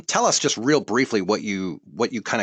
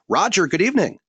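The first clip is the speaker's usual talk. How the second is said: loud greeting; 11 semitones higher, 5 dB louder than usual. Real, not acted. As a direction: call out "Roger, good evening" high and loud.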